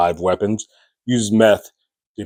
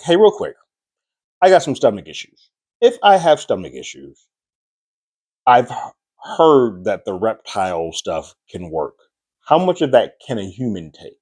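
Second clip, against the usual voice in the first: voicing Fran; 2 semitones higher, 3 dB louder than usual. Fran acting sick to Rusty.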